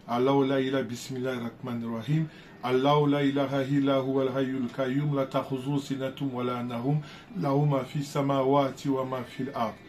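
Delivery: a lightly recited Arabic verse; Quranic recitation. Acted. Recites Ayatul Kursi in Arabic.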